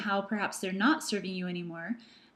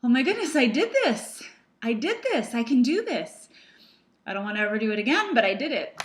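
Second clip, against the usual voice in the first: higher and louder, thrilled and relieved; relieved excitement; 3 semitones higher, 4 dB louder, faster than usual. Retold or imitated. Landing after the ropes jump, higher, louder, elated relief. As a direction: burst out with giddy relief at having done it. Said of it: "and I think".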